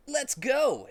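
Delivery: high, loud go-call; Sonic voice. Acted. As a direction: lead him off. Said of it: "and said".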